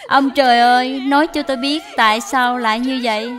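tearful cry to heaven; crying lament. Acted. Daughter-in-law crying to heaven after being thrown out, tearful. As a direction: sob out the question to the sky.

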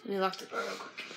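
fast, soft, unvoiced whisper; quick whispered aside; hushed aside. Real, not acted. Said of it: "I hear littles".

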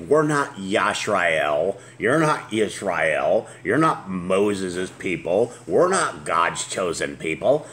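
slow, drawn-out mocking voice of a dismissive Christian. Host mocking what Christians say, slow funny voice. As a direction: lay on a slow sneering parody of their objection. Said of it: "I make a little funny voices with it".

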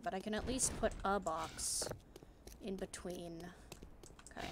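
hushed whisper behind cover. Real, not acted. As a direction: drop to a whisper.

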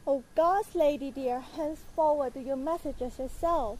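exasperated scolding. Acted. Nurse scolds impatient Juliet.

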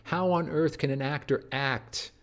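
a lecturer mimicking Hamlet's naive wonder; childlike Hamlet. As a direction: lightly play a gushing, amazed child. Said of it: "Look at him, all these exclamations".

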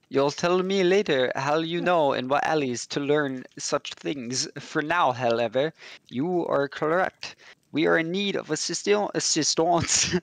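put-on a light, hammy French accent; mock French accent. Priest explaining his need, in mock French accent. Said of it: "this is me trying to do a French accent".

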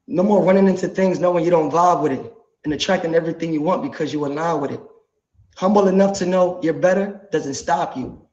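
measured verse delivery with pauses between lines; spoken lyric recitation. Acted. Artist reciting his song to the live audience, spoken-word delivery.

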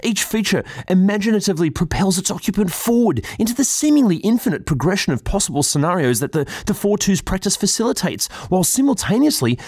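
lofty, highbrow critic voice; pompous gallery-talk delivery; pretentious art critic. Pretend. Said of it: "I'm gonna do it in my most pretentious art critic kind of way".

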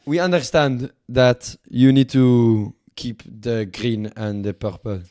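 put-on French accent. French envoy explaining logo terms to the host, French accent. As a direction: explain it as a mock French negotiator. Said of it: "Fuck this French accent".

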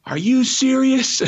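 shocked high yell; furious high-pitched yell at the driver. Retold or imitated. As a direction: bellow it at the shuttle driver. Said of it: "and I yell".

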